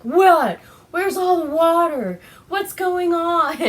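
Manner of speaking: high, loud outraged imitation; mock upset. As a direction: imitate an indignant outburst of disbelief. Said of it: "you can tell he's upset".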